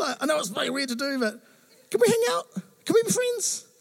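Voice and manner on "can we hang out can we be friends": eager pleading. Retold or imitated. Pleading to be friends.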